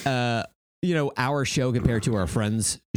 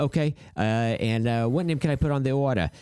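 put-on East Coast accent. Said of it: "some East Coast accent".

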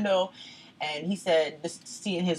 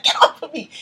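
high, loud indignant retort; re-enacted protest; 10 semitones higher, 10 dB louder than usual. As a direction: act out shaking off someone's grip. Retold struggle with grabbing husband.

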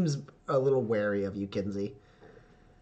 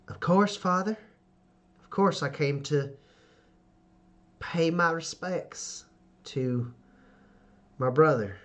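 measured, respectful daughter addressing her father; dutiful Red Wheel; 4 semitones higher than usual. Acted.

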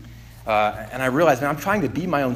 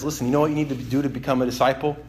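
gentle God voice; 4 semitones lower, 5 dB quieter, faster than usual. Retold or imitated. God's gentle instruction voiced.

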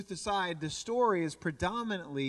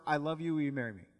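blurted out; 5 semitones lower, much faster than usual. Retold or imitated. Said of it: "the only words that I got out".

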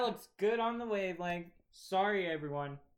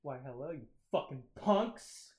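mock villain greeting; 4 semitones lower than usual. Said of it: "Did you actually just start it like that?".

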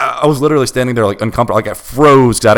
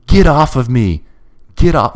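mock shout, higher and louder; retold shouting; 7 semitones higher, 4 dB louder, slower than usual. Imitating a drunk friend shouting at the narrator, mock shout. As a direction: throw it out like a panicked drunk shout. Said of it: "started shouting".

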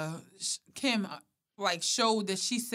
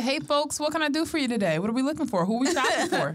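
customer service voice; 6 semitones higher, faster than usual. Retold or imitated. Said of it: "I say".

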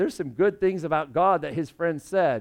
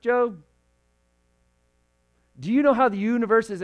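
sarcastic questions; 2 semitones higher than usual. Acted. God mocking Job with sarcastic questions, building in force. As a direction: needle Job with question after question. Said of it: "sarcastic question after sarcastic question".

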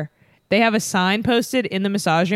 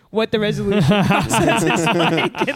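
sarcastically enthusiastic. Retold or imitated. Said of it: "sarcastically enthusiastic to be like".

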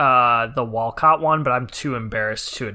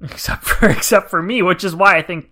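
laughing loudly through the words; 4 semitones higher, 8 dB louder than usual. Real, not acted. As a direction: laugh it out, caught off guard. Laughing at the joke about himself.

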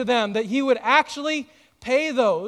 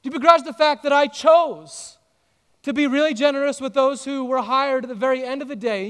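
raised challenge; 3 semitones higher, 3 dB louder than usual. Acted. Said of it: "God says".

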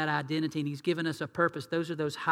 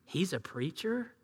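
disbelief; 8 dB quieter than usual. Retold or imitated. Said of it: "to have somebody say".

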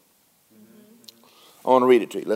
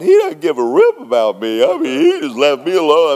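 mock despairing complaint; 3 dB louder than usual. Preacher imitating a believer on a bad day, mock despair. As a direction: sound abandoned and sorry for yourself. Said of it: "The next day, I'm going".

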